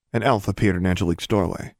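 usual speaking voice

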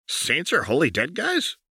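high gleeful rising question; mock wonder; high and giddy; delighted Jinx.

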